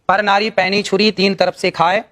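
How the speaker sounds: slow, measured verse recital; couplet recitation. Acted. Guru quoting a moral couplet to the panel, slow recitation. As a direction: recite the doha slowly, line by line.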